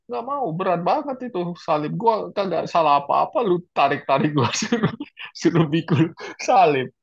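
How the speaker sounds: lightly acted whining at the soldier; half-hearted moaning protest; grumbling complaint. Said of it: "sepanjang jalan ngomel".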